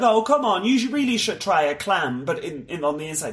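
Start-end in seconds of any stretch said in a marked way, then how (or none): 0.0-2.2 mock coaxing parent. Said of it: "my parents were like".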